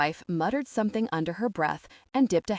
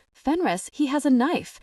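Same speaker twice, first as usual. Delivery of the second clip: higher, louder warning cry; urgent yell; 7 semitones higher, 4 dB louder than usual. Acted. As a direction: shout a warning to Fenris about the knife. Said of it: "and Mara yelled".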